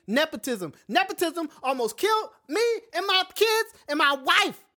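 loud, high, hammed-up indignation; mock outrage. Husband ranting about the hospital, mock outrage. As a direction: overplay the drama for the podcast. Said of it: "Okay, I'm exaggerating".

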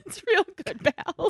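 a hint of a cheesy announcer; pitchman voice. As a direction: lightly imitate a salesman pitch. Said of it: "Is it the Pitchman voice?".

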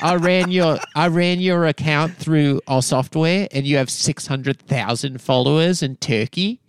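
imitated Australian influencer accusation; Australian accent. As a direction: mimic an Australian influencer calling out a fake. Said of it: "I just heard the accent".

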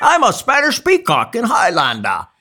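very high, loud hammed-up Scottish impression; Sean Connery. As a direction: proclaim it as a parody film star. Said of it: "Sean Connery kept the same accent his entire career".

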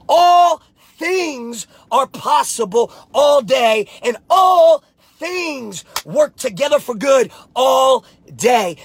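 slow, shouted and near tears; slow, tearful shouted preaching; impassioned shout. Real, not acted. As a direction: pour everything into it. Climax of motivational speech.

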